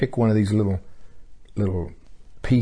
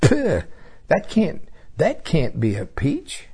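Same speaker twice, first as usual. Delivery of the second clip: high disgusted disbelief; 6 semitones higher, slower than usual. Retold or imitated. Tasting the sour peach.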